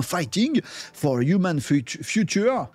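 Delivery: English with a thick French accent; French-accented English, tripping on the last word; bad French accent. Real, not acted. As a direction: stumble through English with a clumsy French accent. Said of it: "pardon pour mon accent à la noix".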